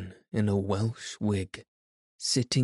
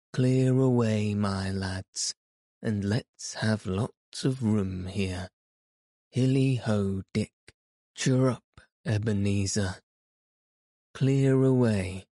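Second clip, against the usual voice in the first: jolly shout. Acted. Fezziwig shouting orders, party.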